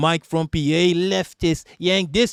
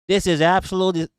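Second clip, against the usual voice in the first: higher-pitched attempt at a Valley accent; 4 semitones higher than usual. Streamer quoting an offended woman, botched Valley accent. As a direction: try a Valley accent, badly. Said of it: "I gotta do a Valley accent".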